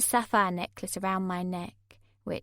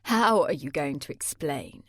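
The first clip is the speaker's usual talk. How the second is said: softly; 6 semitones lower than usual. A narrator's reading. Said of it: "Mark said softly".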